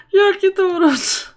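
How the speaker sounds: high, loud gush over cuteness; high loud delighted gush; gushing squeal. Real, not acted. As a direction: coo at the cute pets. Gushing over cute pets.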